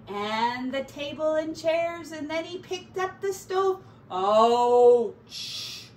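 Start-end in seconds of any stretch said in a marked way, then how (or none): 4.1-5.9 loud gruff ouch; badger's yelp. A narrator's reading. Badger burns his paw on the stove, loud yelp. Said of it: "said the badger, dropping the stove".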